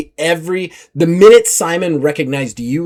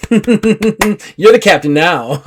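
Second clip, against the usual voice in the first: slow, higher, half-laughing surrender; mock-deferent pirate; 5 semitones higher, 3 dB louder, much slower than usual. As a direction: hand over the captaincy with a sly grin. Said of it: "Simon's like".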